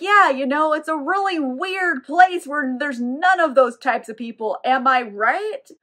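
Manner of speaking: mock-casual wink in the voice; knowing hint. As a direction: drop a broad hint, nudge-nudge style. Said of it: "Wink, wink".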